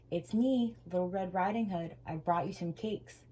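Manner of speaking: put-on wolf hides his voice behind a mild girlish tone; wolf faking a girl's voice. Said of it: "trying to hide his gruff voice".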